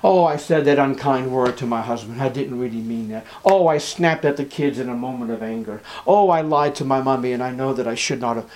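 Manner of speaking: mildly groaned confession; understated, sighing self-reproach; rueful groaning. Acted. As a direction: act out a touch of regret, owning up. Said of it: "Do you groan?".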